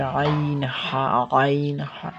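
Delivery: আইন and হা squeezed from the middle of the throat; mid-throat ayn. Shown as a demonstration. Teacher showing students where ayn comes from, mid-throat articulation of আইন. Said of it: "হলকের মধ্যখান থেকে".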